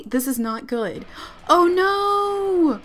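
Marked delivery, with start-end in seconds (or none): 1.5-2.8 real panicked squeal; high panicked pleading. Real, not acted. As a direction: pitch up high, loud and pleading. Sims fighting, she panics.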